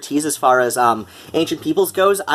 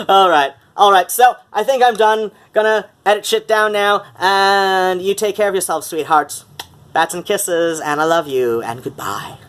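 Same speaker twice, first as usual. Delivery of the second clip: higher Mid-Atlantic video sign-off; Mid-Atlantic accent; 5 semitones higher than usual. Shown as a demonstration. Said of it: "Mid-Atlantic accent for these videos".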